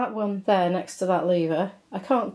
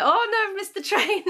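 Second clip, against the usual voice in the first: mock panic; 11 semitones higher than usual. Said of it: "I was like".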